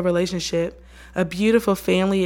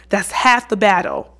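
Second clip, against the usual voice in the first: ordinary delivery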